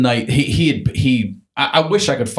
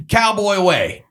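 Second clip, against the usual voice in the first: triumphant; 12 semitones higher, slower than usual. Retold or imitated. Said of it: "And he goes".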